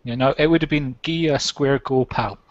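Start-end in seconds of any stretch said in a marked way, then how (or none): 1.0-2.4 slow Scottish fighting challenge; Scottish brogue. Retold or imitated. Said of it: "what he would have been saying to him".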